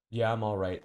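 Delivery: loud, jolted "yeah, I'm all right"; snapping awake. Retold or imitated. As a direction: blurt it like you just shot upright. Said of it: "like that".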